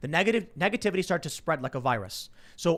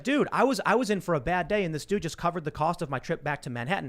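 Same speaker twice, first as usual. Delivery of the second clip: happy; 2 semitones higher than usual. Retold or imitated. Cabbie telling of the covered trip cost, happily amazed. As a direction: imitate a relieved, happy cabbie. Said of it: "He's happy".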